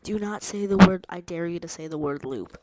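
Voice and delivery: loud mock order; loud dare. Daring the AI not to say the word, loud. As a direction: bark it like a command.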